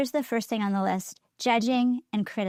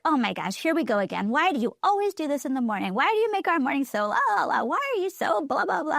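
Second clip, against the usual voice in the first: exasperated nagging; 4 semitones higher than usual. Pretend. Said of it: "all the discouraging things I could have said".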